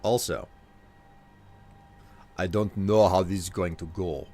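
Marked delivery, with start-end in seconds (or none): 2.4-4.3 put-on amateur Nord accent drifting toward German; bad Nord accent. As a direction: attempt a wobbly Nord accent. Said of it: "of a, of a, of a Nord accent".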